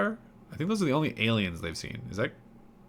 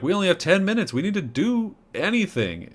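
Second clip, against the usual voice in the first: panicking; 9 semitones higher than usual. Retold or imitated. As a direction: beg for action in a panic. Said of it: "Bailey starts freaking out".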